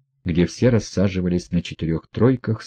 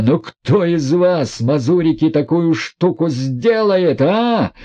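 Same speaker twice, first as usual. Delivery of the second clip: beside himself; 7 semitones higher, slower than usual. A narrator's reading. Rogozhin gloating at the guests, high slow ecstatic cry. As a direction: crow it at the crowd, carried away. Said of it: "вскрикивал он, не помня себя".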